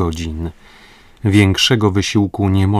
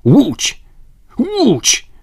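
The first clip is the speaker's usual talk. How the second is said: sudden high shout, higher and louder; 5 dB louder than usual. Acted. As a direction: cry out as if spotting rescue. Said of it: "John Mangles krzyknął".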